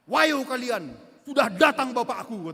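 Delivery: put-on a proud kid's loud taunt; child taunting bullies. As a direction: shout it like a kid whose dad just showed up. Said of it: "Apa kata anak saya?".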